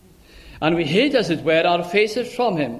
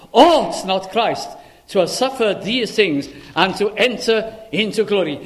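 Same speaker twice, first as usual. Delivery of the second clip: emphatic challenge; 3 semitones higher, 4 dB louder than usual. Acted. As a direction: press the question on them. Jesus' challenge read aloud.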